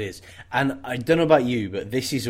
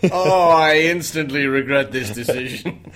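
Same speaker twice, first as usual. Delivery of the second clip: deadpan regret; 4 dB louder, slower than usual. Pretend. Voicing man tasting the foam.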